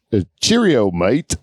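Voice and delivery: hesitant put-on British accent. Shown as a demonstration. Host struggling to demonstrate, tentative British accent. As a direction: try a rough British mate. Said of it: "the British accent is like".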